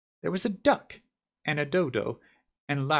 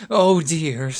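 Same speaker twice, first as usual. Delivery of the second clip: sorrowful; 5 semitones higher, 7 dB louder than usual. Acted. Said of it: "sorrowful tone".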